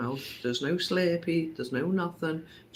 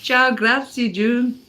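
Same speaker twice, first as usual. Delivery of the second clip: mock Italian; 6 semitones higher, 7 dB louder, slower than usual.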